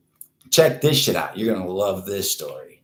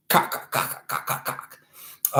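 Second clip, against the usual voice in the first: unvoiced rapid-fire clucking on one word; mock clucking; 6 dB quieter than usual. Host flouting being told not to say it, clucking. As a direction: peck the word out like a chicken, voiceless. Joking repetition of banned word.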